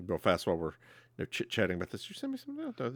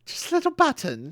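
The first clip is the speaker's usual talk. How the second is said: tiny high-pitched mock plea, pushed loud; playful pleading; 3 dB louder than usual. Fan told she can't afford Trek props, playful pleading. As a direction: bargain in a squeaky, exaggerated little voice. Repeating the jokey plea for souvenir.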